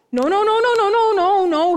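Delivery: high, rapid-fire protest; insistent denial. Acted. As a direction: refuse to be talked out of it. Mary insists against disbelievers.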